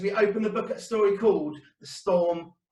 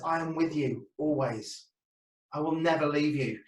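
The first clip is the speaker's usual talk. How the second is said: gentle reassurance; 5 dB quieter than usual. Acted.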